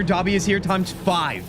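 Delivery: Dobby impression. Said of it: "intimidating version of Dobby".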